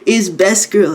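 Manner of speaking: high whisper building to slow praise; a high put-on fan voice; awed fanboy squeal. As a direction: gasp it then declare it. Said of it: "I was like".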